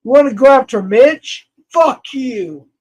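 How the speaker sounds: angry challenge to the chat, defending Mitch. Real, not acted. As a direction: throw the challenge at them.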